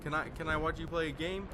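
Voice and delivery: lightly voiced little boy asking a favor; attempted child voice. Kid asking to watch him play, attempted child voice. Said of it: "in his child voice, I can't really do a child voice".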